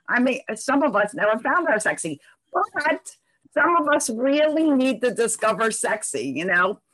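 dull, muffled microphone sound. Real, not acted. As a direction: voice through a muffled mic. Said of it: "I apologize in advance for my muffled microphone".

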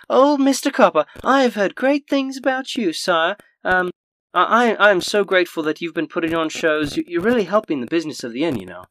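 put-on high, loud older woman voice; gushing innkeeper's wife. Innkeeper's wife gushes over player.

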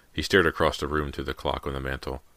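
usual speaking voice

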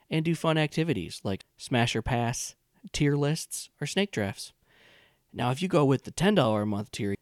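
upbeat promo read. Acted. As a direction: pitch the Patreon tiers cheerfully. Host reads Patreon ad.

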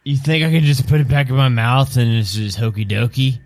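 lightly voiced old vampire; a hint of an aged vampire questioning; decrepit old vampire. Old vampire asks Marcus about his tooth, lightly put-on voice.

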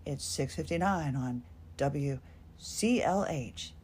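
low, half-hearted sultry radio voice; attempted sexy voice. Shown as a demonstration. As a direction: try a low on-air purr, unconvincingly. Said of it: "I talked in a low sex".

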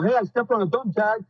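sneering impression of a lawsuit chaser; mock scheming plaintiff. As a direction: play the opportunist spotting a payday. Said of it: "that one guy to go".

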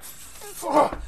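a sudden squeaked curse, pitch jumping way up; high startled curse. Acted. Caught seller yelps a high startled curse.

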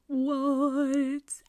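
high startled "What?"; surprised. Real, not acted. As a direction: blurt out in disbelief. Reacts in disbelief.

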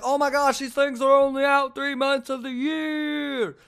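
high, excited gush, last word stretched; hammed-up thrilled realization, drawn out; mock amazed discovery. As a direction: gush like an overexcited toad finder. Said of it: "and you're like".

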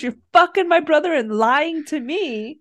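tearful accusing wail; mock crying. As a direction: fake a sob through the accusation. Acted fight quote.

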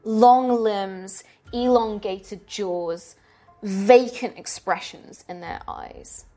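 slow, deliberate horror scene-setting; game master narration. Acted. Game master showing players a torture room, slow and ominous. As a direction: draw out each grim detail with dramatic pauses.

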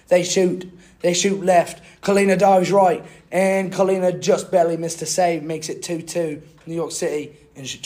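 British football commentary; British accent. Acted. Podcaster replays the match for co-host, mock British commentary accent. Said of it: "I'll speak in a British accent".

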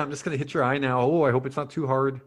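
polite mock-Canadian; quick, apologetic Canadian accent. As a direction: considerate cartoon Canadian. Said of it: "I'd like a Canadian one".

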